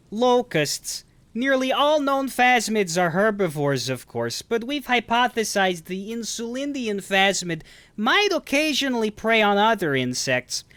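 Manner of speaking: high, slow, put-on accented voice; Tommy Wiseau. Showing a voice done without thinking, Tommy Wiseau impression. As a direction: raise the pitch and stretch the words out, a full-on impression. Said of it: "the Tommy Wiseau voice".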